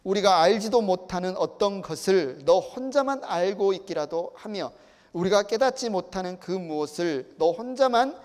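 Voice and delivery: forceful, declaimed challenge; loud stressed openings, pointed rhetorical question; Eliphaz rebuking Job. Acted. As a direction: read it as an indignant accusation. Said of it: "엘리바스가 욥에게 이런 말을 해요".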